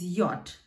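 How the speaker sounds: "yacht" as the German letter name yot; slow, careful "yacht" for the letter J. Shown as a demonstration. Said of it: "So J is yacht".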